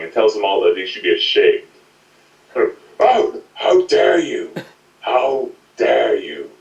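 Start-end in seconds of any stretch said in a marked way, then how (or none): 3.0-6.5 a lighter take on a borrowed impression, indignant; lightly voiced outraged father; Willem Dafoe voice. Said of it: "ripping up Jim Sterling's Willem Dafoe voice, but in a more lighter voice".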